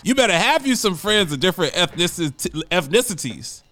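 excited, tripping over words; heated rant, words tumbling out; fired up, stumbling. Real, not acted. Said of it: "I'm getting fired up and, and stumbling over my words".

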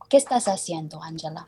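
speaking Spanish. Shown as a demonstration. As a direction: say it in native Spanish. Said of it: "can you speak some Spanish for me".

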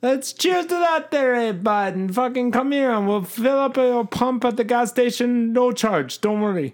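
very high, drawn-out mock Canadian accent; hammed-up Canadian drifting into another accent; botched Canadian accent. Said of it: "Now I'm Mexican".

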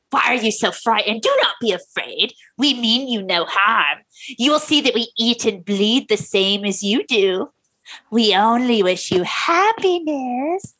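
lightly voiced Joker-like stranger; creepy reassurance, stretched at the end; creepy visitor. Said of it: "descending into Mark Hamill's The Joker".

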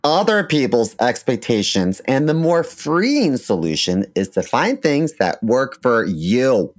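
ad read. Acted. Host reads sponsor copy.

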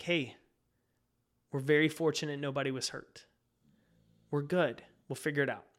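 calmly reassuring. Retold or imitated. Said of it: "my wife so calmly was like".

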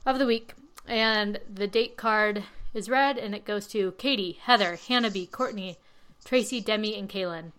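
short of breath, talking through it; breathless, catching air between words. Real, not acted. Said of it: "Sorry, I'm out of breath".

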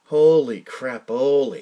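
stunned inner exclamation. Retold or imitated. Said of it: "I'm thinking to myself".

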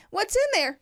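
put-on high, wondering child voice; mimicking a curious toddler. Mom imitating her son asking again. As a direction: play the kid poking at the scale. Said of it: "Okay, Porter".

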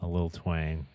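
twang. Shown as a demonstration. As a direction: lean into a little twang. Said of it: "he does kinda put on a little bit".

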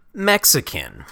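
ironic stress on Mexican; air quotes. Shown as a demonstration. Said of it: "heavy finger quotes".

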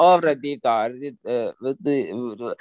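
garbled imitation of a Russian accent; mock Russian accent. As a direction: fumble through words in a Russian accent. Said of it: "because the Russian accents".

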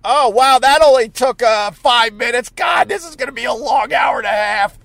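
real impatient exasperation; exasperated. Real, not acted. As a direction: groan about the long wait, voice pushed up. Grumbling live while stuck waiting.

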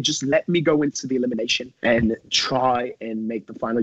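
a lightly voiced British mate, pleading with his rival; half-put-on Kyle voice, a rugged competitor begging to be let off; impression of Kyle. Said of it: "I'm gonna try and do my impression of him".

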